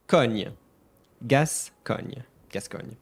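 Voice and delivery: "Gascogne" as "gas-KON-y", French ny ending; syllable breakdown. Shown as a demonstration. Teacher rebuilding the name for viewers, French "Gascogne". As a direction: give "Cogne" alone, then "Gascogne" whole. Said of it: "this one is a bit tricky".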